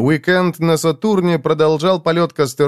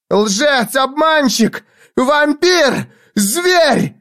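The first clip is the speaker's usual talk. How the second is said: very high cries, each higher; shouting; 13 semitones higher, much slower than usual. A narrator's reading. Jiz screams insults at Foyle, climbing higher. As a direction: scream every insult harder. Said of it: "крикнула она".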